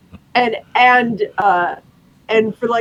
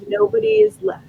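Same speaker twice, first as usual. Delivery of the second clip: high hopeful vow; 12 semitones higher than usual. Pretend. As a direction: promise to return, pitched high. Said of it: "doing that thing where she's like".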